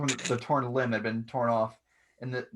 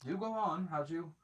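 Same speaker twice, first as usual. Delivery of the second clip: amused master voice; 4 semitones higher than usual. Acted. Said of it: "He goes".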